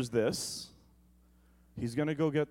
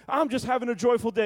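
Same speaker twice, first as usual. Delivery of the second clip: mock cheerful coworker; 7 semitones higher, faster than usual. Coworker's cheery remark, mocked.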